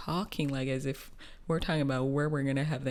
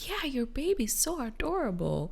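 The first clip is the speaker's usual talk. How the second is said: imitating a stranger; 10 semitones higher than usual. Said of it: "She's like".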